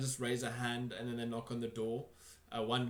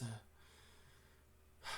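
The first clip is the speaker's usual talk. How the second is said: whisper; 16 dB quieter than usual. Acted. Worried host hushes his voice.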